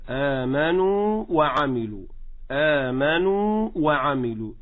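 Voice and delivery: آمنوا with full madd, no merging into the waw; held long vowel. Shown as a demonstration. Teacher shows students the full madd, held long vowel. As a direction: draw out the نو of آمنوا, then a separate وعملوا. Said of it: "فأقول هكذا".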